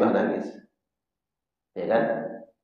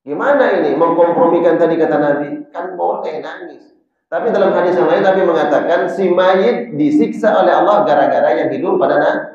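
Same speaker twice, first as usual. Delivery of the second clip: emphatic puzzlement; 5 semitones higher, 5 dB louder than usual. Acted. Rhetorical puzzle.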